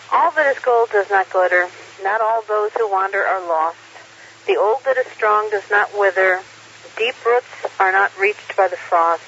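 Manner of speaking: slow, measured verse reading; poem recitation. Acted. Reads a Tolkien poem aloud.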